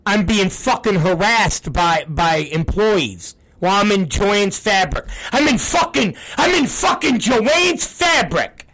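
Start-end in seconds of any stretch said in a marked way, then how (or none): 5.3-8.7 exasperated, voice pitched up; exasperated rant. Real, not acted. Host venting about being harassed in Joann's Fabric, exasperated. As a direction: protest it in exasperated disbelief.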